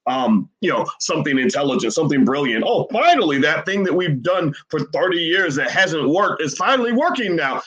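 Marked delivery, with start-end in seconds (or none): 2.6-7.6 mocking. Mocking those who keep failing.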